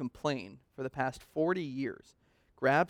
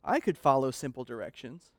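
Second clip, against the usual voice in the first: mock scorn; 4 dB louder than usual. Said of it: "point our finger at Moses and say".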